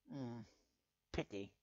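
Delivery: Nightmare Moon's fake regret; insincere pity. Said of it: "That tone obviously suggested no such thing".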